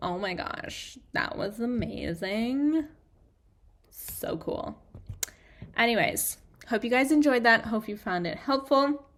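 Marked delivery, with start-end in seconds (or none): 0.0-4.8 put-on very slow, breathy, hushed, drawn-out valley girl whisper. Closing an episode, host shows viewers the accent to type with, valley girl voice. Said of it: "channel that little valley girl and just be like".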